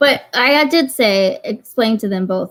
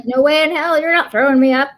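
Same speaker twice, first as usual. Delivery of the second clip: indignant cat; 5 semitones higher, 3 dB louder than usual. Retold or imitated. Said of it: "The cat was like".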